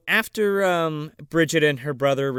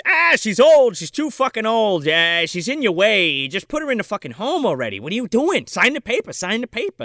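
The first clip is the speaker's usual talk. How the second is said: higher, louder nagging rant; mock pushy aunt; 5 semitones higher, 4 dB louder than usual. Friend imitates the aunt nagging the parents, mock pushy. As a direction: push them to sign, hammed-up. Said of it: "She's like".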